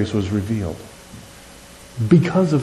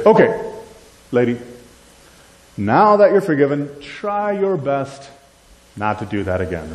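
mock casual Jesus. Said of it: "Does he say".

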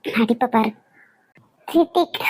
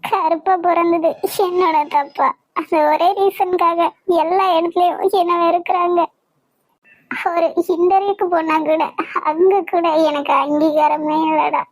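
crying. Acted. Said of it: "அழாதம்மா".

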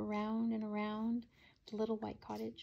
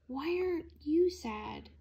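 demanding; 7 semitones higher, 3 dB louder, slower than usual. A narrator's reading. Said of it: "demanded Lulu".

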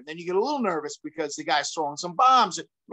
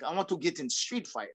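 softer, lightly imitated foreign accent; George Gurgel; 7 dB quieter than usual. Friend insisting on a street fight, lightly imitated accent. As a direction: repeat it quietly in your friend's accent. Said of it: "do my best George, uh, accent".

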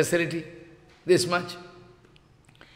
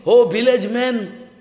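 higher, louder drawn-out call; shouting; 4 semitones higher, 6 dB louder, slower than usual. Acted. Jayadev calling the village men, shouting. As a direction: call out slowly to a whole village. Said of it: "and shouting".

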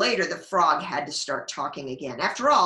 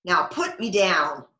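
frog demanding; 4 dB louder than usual. Acted. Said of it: "the frog said".

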